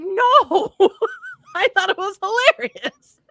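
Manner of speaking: high, laughing reply. Real, not acted. Answering the pastor while laughing, high. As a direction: giggle through the answer.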